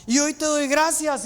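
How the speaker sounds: high, drawn-out declaration to God; praying out loud. Acted. Jesus thanks God before the crowd, proclaimed aloud. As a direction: proclaim it in a lifted voice, easing off. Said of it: "Jesús lo dice en voz alta".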